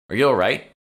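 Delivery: high, loud worried call; alarmed shout. A narrator's reading. Jade calling to Emma as her body jerks.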